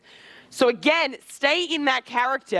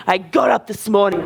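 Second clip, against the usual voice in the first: lower, emphatic character voice; Tyrion; 4 semitones lower, 4 dB louder than usual. Shown as a demonstration. Coach shows Tyrion's tone on everyday talk, lower. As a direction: keep the declaiming tone. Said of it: "same, same tone".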